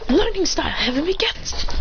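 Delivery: high-pitched technique call; called-out attack. Retold or imitated. Mitsuki triggering a memory with his move, high attack call.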